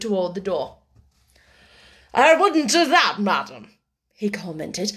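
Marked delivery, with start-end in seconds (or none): 2.1-3.7 lightly voiced measured gentleman, slow and firm; cool, deliberate man of business; unruffled businessman. A narrator's reading. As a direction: caution her slowly and firmly.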